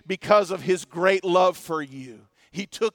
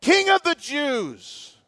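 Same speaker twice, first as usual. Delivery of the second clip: mocking hail; 4 semitones higher, slower than usual. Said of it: "they're saying".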